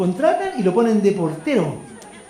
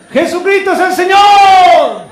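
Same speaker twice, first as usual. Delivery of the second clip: loud, high, slow proclamation; shouted declaration; 9 semitones higher, 12 dB louder, much slower than usual. Retold or imitated. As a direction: shout it up to the whole building site. Gatekeeper shouting up to worker.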